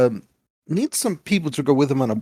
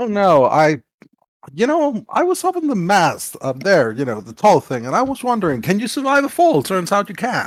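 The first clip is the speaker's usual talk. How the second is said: put-on, swooping, sarcastic delivery; 5 semitones higher, 3 dB louder than usual. Answering another character's remark about bruises, in character: sarcastic in-character reply. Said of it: "She's being sarcastic".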